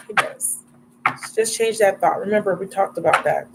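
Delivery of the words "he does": whispered reassurance. Real, not acted. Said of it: "he does care".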